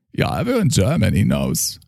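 put-on slipping into a German accent; quick German-accented aside. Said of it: "with a German accent".

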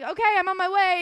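high, loud mock panic; retold freak-out. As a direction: act out a frantic quick reply. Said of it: "I'm, like, freaking out".

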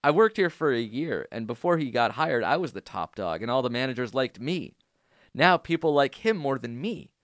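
dramatic reading of a fan email; reading an email aloud. Acted. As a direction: read the listener's letter with mock drama. Reads listener email aloud.

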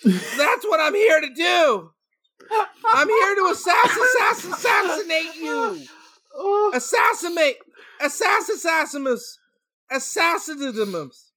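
overacted death scene. Son vows revenge, overacted.

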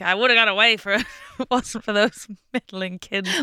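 lightly voiced Scooby-Doo baddie; a hint of a sneering cartoon villain. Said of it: "you sounded like a villain from Scooby-Doo".

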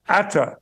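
"Atta" as one word for "art thou"; Yorkshire dialect. Shown as a demonstration. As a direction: run "Atta" together in Yorkshire fashion. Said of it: "we said thee and thou in my household".

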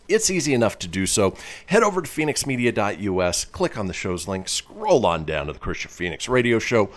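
upbeat radio announcer voice; radio host read. Acted. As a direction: sell the show like a DJ coming back from a break. Host reads show announcements.

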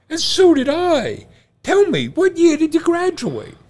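high, loud, thrilled Irish voice; the first guy bursting with excitement in a thick Irish lilt; excited Irish brogue. Retold or imitated. Excited barfly telling his twin he graduated too, in a high, loud Irish voice. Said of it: "gets really excited".

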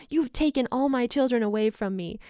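a mild imitation of a father's yell; mock scream. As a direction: accuse them as the panicking father, understated. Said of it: "he screams at his kids".

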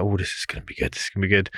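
whispered, rubbing hands at what's coming; soft eager whisper to himself; hushed gleeful anticipation. Retold or imitated. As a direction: breathe it quietly like a secret treat. Excited anticipation whispered to self.

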